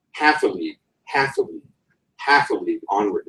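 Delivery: "half a league" with HALF stressed, then two light beats; dactylic rhythm. Shown as a demonstration. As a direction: recite like a marching chant. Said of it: "It's boom, boom, boom".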